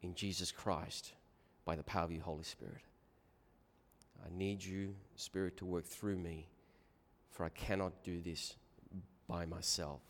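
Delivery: low, soft prayer voice; solemn prayer. Real, not acted. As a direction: pray quietly and humbly, with pauses between phrases. Closing a prayer before the talk.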